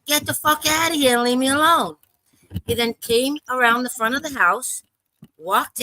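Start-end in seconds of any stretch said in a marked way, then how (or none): 0.1-2.0 higher, mock yell in the retelling; retold yell. Retelling yelling at neighbor with knives, higher mock yell. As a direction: push it up higher, like yelling again. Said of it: "So I yelled louder".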